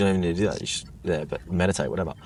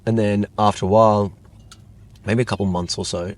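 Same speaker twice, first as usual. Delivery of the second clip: ordinary delivery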